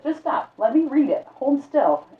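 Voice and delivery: high, loud, cutting the argument short; impatient command. Acted. Librarian ending the argument, high loud command. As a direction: stop the squabble and take charge.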